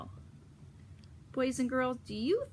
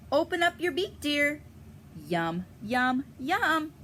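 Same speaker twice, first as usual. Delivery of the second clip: Mama Duck; 5 semitones higher than usual. Acted. Mama Duck urging ducklings into the muck, higher coaxing voice. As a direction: coax them into the puddle. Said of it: "says Mama".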